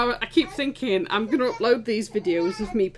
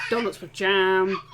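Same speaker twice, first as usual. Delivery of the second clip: put-on slow, broad Yorkshire accent; 4 dB louder, slower than usual. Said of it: "I'll now go back to my Yorkshire accent".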